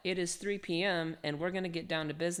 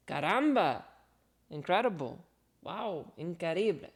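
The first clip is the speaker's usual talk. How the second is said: Spanish exclamations; 3 dB louder than usual. Pretend. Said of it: "my Spanglish, uh, is, is atrocious".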